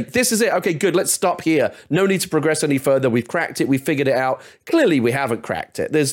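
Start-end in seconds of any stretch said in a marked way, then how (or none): 0.0-4.4 high, mocking voice of someone content to stop; mock complacent voice. Guest mocking people who stop progress: high mock voice. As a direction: send it up high and smug. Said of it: "put the brakes on and say".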